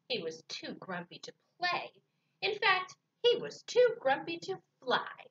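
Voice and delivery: animated picture-book reading, key words punched; story narration. A narrator's reading. Reading Grumpy Bird to children, animated storytelling. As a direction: read to small children with swooping pitch.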